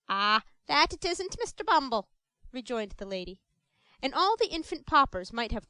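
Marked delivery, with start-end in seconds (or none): 0.1-2.1 mild woman's voice. Acted. Mrs Mann agreeing.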